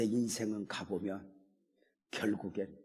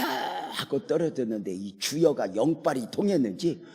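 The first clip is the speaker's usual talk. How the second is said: normal talking voice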